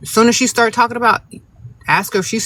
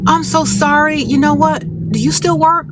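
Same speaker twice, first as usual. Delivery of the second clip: high, sugary mock innocence, much higher; fake sweet; 8 semitones higher than usual. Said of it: "I'd be like".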